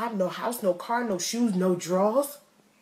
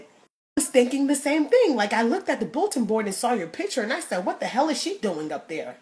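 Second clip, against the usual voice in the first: put-on condescending white girl; 2 semitones higher than usual. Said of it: "she looked at me and said".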